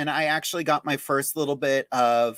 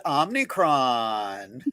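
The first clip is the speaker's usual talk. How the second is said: drag show announcer; much slower than usual. Pretend.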